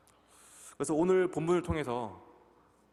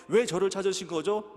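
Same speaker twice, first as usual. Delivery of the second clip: put-on puzzled child reply; 4 semitones higher, 4 dB louder than usual. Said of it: "라고 얘기를 하는 거예요".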